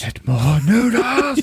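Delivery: high, slow squeaky order; mock commander. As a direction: shout it like a comic general. Playing the dictator ordering noodles.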